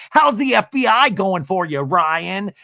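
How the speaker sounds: hammed-up sneer; tipsy taunting Tamra. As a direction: needle him like a tipsy guest. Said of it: "had a couple of strong martinis and says".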